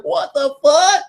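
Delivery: high, slow stunned exclamation. Retold or imitated. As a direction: stretch it out in shock. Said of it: "I'm like".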